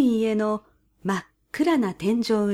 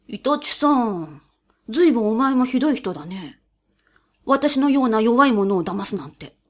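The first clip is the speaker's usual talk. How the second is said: whiny mouse. A narrator's reading. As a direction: whine like a wronged mouse. Mouse voiced in story.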